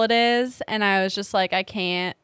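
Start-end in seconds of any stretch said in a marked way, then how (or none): 1.5-2.2 a touch of Southern twang on "can't"; slipped Southern accent. Real, not acted. Host slipping into a Southern accent while retelling her thought. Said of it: "I'm getting a Southern accent".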